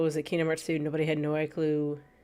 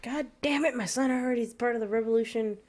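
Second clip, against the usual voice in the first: a hint of a Southern grandfather, higher; mock Southern accent; 6 semitones higher than usual. Streamer voicing the grandfather in a light Southern accent. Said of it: "I can't even do the Southern accent anymore".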